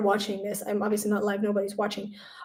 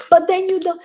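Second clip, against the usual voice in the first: high and raised, a put-on little voice; mock retort; 9 semitones higher, 6 dB louder than usual. She mocks herself talking to Shiny, high and raised. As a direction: toss it back playfully. Her own retort quoted.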